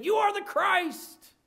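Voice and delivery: high, loud and slow, proclaiming with fire; ardent confession. Retold or imitated. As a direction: declare it like a bold disciple. Peter's ardent confession, retold.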